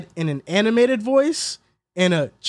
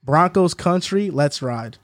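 Russell Wilson catchphrase take; slower than usual. Shown as a demonstration. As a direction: stretch it out, then drop the pitch. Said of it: "Do it one time".

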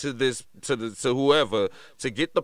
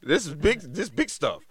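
emphatic refusal. Retold or imitated. Dad refusing son's excuse.

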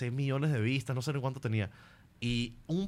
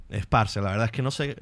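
Colombian parce accent; tentative Colombian lilt; 2 semitones lower than usual. Shown as a demonstration. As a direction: attempt a Colombian accent, uncertainly.

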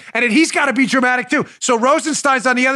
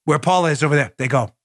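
normal talking voice

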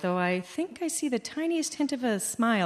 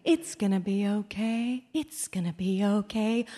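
repetitive soothing; 4 dB quieter than usual. Retold or imitated. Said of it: "over and over and over".

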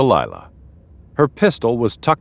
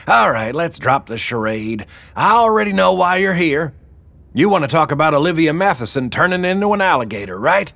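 high-pitched boss woman getting to business; brisk Wilma; 8 semitones higher than usual. Acted. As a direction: cut to the chase in a high voice. Wilma takes charge.

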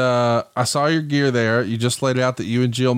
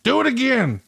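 imitating Vince; 12 semitones higher than usual. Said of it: "He would have been like".

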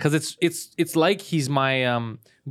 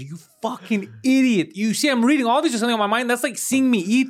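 mock outburst; 8 semitones higher than usual. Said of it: "I goes".

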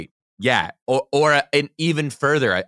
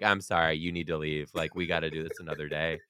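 softer, embarrassed dismissal; mortified; 7 semitones lower, 9 dB quieter than usual. Pretend. Imagined teacher sending the inspector away, softer. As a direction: say it small and mortified.

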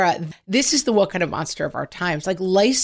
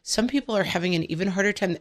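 soothing parent speech; 4 dB quieter than usual. Retold or imitated. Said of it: "I said".

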